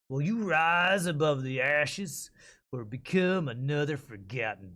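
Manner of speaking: slow, gritty southern Texas drawl, a touch of trailer voice; slow gritty Texas accent. Shown as a demonstration. Voice actor reads a survival game ad in a slow gritty Texas accent. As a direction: drag out each Texas line like a dusty game trailer. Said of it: "I don't know if I like the southern Texas accent".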